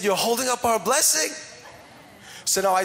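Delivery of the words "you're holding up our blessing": high-pitched retold disbelief; indignant protest. Preacher retelling his complaint to finance person, indignant disbelief. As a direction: climb in pitch, re-enacting the protest.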